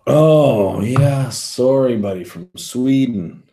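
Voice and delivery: put-on a terrible rendition of a Swedish accent; mock Swedish accent. Streamer reads a Swedish viewer's chat in a mock Swedish accent. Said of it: "we talk with a Swedish accent".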